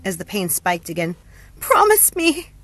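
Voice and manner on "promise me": high, loud, strained demand; through gritted teeth. A narrator's reading. Hope in pain begs a promise, through gritted teeth. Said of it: "she said through gritted teeth".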